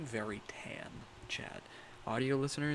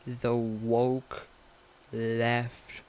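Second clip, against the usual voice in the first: mock ranting; 10 dB louder than usual. Mock ranting about the left.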